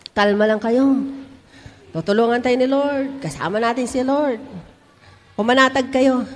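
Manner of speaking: low, softened reassurance, unhurried; calm encouragement. Retold or imitated. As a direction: gently settle an anxious crowd as their leader. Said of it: "In-encourage siya ang mga Israelite". (mahinahong pagpapalakas ng loob)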